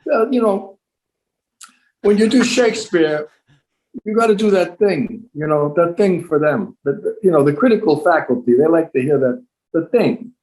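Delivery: mock actor voice. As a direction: ham up a pompous Shakespeare actor.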